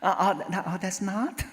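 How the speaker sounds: high stammering, trailing into laughter; embarrassed, flustered. Retold or imitated. Accuser realizing her mistake about the car, embarrassed. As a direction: backpedal sheepishly, imitating the embarrassed neighbor. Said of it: "너무나 쑥스러워지고".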